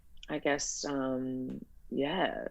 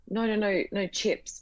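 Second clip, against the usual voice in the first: correcting her; 6 semitones higher than usual. Retold or imitated. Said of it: "I was like".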